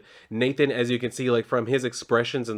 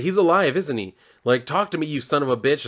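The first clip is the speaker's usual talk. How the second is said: mild mock yell, higher pitched; retold yelling; 4 semitones higher than usual. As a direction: act out calling the entity out, only moderately raised. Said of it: "he starts yelling out".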